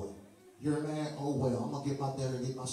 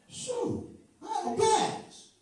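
laughing; slower than usual. Real, not acted. Laughing at his own story.

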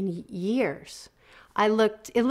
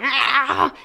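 inner voice shriek; 6 semitones higher, 5 dB louder than usual. Retold or imitated. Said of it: "those inner voices ... start going".

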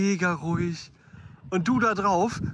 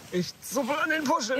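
much higher, sing-song tone; high playful voice; 9 semitones higher than usual. Pretend. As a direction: pitch it up playfully. Playfully repeating while tugging tassels.

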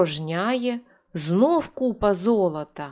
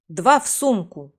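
shouted spell. Acted. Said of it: "крикнув він".

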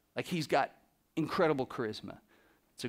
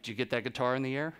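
imitating a singer; 2 semitones lower, faster than usual. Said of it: "He's like".

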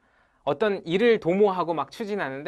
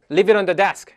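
louder cue at normal speed; louder model; 6 dB louder, much slower than usual. Shown as a demonstration. Teacher giving the loud cue to repeat. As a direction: say it out clearly for the class. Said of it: "시작".

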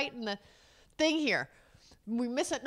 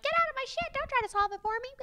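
much higher, exasperated voice; mock snapping; 14 semitones higher than usual. Wife retelling telling husband to back off, high and exasperated. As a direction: push him off in a shrill-free high whine. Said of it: "And I'm like".

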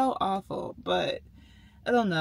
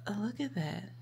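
hushed whisper over the eye photo; 7 dB quieter than usual. Real, not acted. Vlogger whispering to viewers about her eye scan. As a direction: breathe it out, barely voiced.

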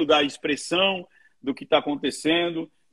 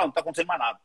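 ostrich in denial; 6 dB quieter, much faster than usual. Retold or imitated. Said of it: "e fala".

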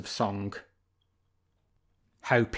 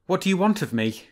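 sly fox; 7 semitones higher than usual. Acted. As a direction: play the fox, teasing the bear.

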